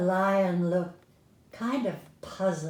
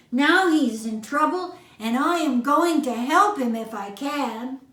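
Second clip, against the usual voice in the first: determined mouse; 5 semitones higher, 6 dB louder than usual. A narrator's reading. Mouse voiced in story.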